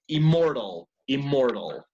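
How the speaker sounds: immortal with only an M sound, no N; double-M pronunciation. Shown as a demonstration. Teacher modelling the English word, immortal said with M alone. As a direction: say immortal as "im-mortal", each take falling. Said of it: "going to use a double M".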